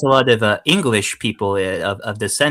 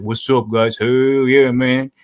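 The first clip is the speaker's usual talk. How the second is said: exaggerated imitation African American accent; put-on African American accent; 2 semitones higher, 4 dB louder, slower than usual. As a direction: mimic African American street speech, stretched vowels. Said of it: "like, the African Americans who was like".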